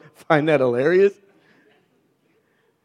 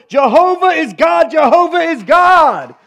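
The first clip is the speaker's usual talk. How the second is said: much higher, louder shout of worship; shouting praise; 10 semitones higher, 5 dB louder than usual. Acted. Crowd falling on faces shouting, loud ecstatic proclamation. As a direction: cry out in awe. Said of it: "they groaned and they shouted".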